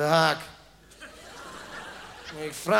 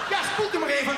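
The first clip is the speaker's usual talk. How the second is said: dentist voice, higher; 7 semitones higher than usual. Acted. Dentist telling patient to rinse.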